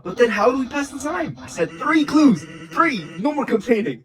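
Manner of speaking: shouting Papyrus. Acted. Papyrus yells at Sans about the clues. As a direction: put your foot down.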